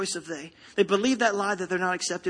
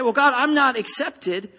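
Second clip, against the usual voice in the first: mock whining excuse; 3 dB louder, slower than usual. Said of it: "when you come ... and say".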